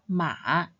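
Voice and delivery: drawn-out MA, down then up; third tone. Shown as a demonstration. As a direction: say MA long, with a dip and a return upwards. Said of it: "When read in the third tone".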